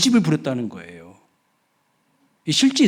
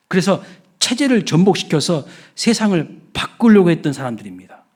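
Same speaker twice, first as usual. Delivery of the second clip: ordinary talk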